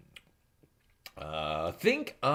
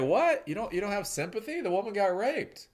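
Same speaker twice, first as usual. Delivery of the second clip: mock indignation; 10 semitones higher than usual. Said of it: "And I was like".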